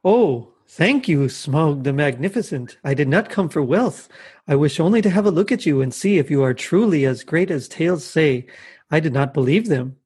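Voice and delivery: lightly voiced flattering burglar; Bilbo. Bilbo flattering the dragon, lightly acted courteous voice. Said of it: "Bilbo, the, the burglar".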